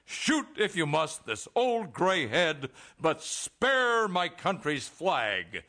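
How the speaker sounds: slow, drawn-out poetic declamation; declaimed heroic line. Acted. Official demonstrating her inspirational line for the window, slow declamation. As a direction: stretch the words like a stirring verse. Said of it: "Here's what you say".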